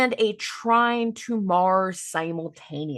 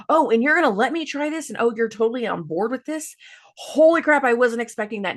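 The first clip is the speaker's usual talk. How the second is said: higher, louder, half-mock excited gush; excited disbelief; 3 semitones higher, 3 dB louder than usual. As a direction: act thrilled someone said yes. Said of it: "this is super exciting".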